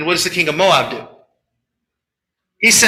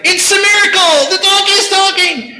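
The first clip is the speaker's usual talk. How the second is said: much higher, louder gushing cry; mock amazement; 14 semitones higher, 5 dB louder than usual. Believers marveling at the talking donkey, hammed-up excitement. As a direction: gush like a wide-eyed believer. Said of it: "the other people are like".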